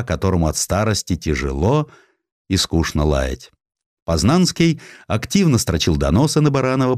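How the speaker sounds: ordinary delivery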